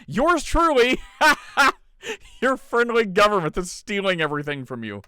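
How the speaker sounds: high, loud, sarcastic pompous close; mock official sign-off. Mocking sign-off of the letter.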